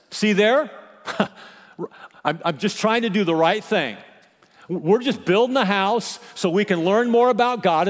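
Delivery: mild mock exasperation; exasperated complaint. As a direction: complain to God, fed up. Preacher acts the axe man's complaint.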